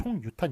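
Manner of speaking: 총유탄 said as two words, chong-yutan; split reading. Shown as a demonstration. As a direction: read 총유탄 as 총 plus 유탄, keeping the y sound. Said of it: "이렇게 읽기 때문에".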